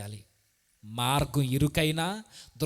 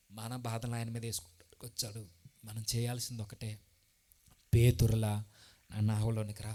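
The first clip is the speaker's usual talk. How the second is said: much softer and lower, intimate; soft prayerful preaching; 6 semitones lower, 7 dB quieter than usual. Acted. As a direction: draw the congregation in gently. (మృదువుగా, ప్రార్థనాపూర్వకంగా బోధించడం)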